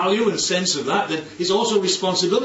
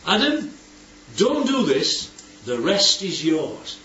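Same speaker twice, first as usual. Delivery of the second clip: God instructing Adam; slower than usual. Acted. God gives Adam his one rule, emphatic then easing. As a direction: lay down one rule, then generously hand over. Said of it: "what God says is".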